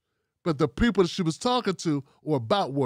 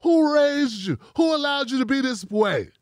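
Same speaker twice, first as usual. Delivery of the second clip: high comic roast voice, repeated; sling it again like the comedian's bit; TK Kirkland catchphrase voice; 6 semitones higher than usual. Retold or imitated. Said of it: "Shout out to T K Kirkland".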